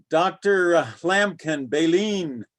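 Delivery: lightly quacky cartoon duck voice; a hint of a squawky duck; Donald Duck voice. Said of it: "they want me to use my Donald Duck voice more".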